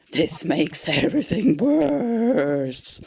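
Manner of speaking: slow, hammed-up sob on the words; fake-weep it like a tragedy; slow comic sob; mock crying. Mock lament over coffee.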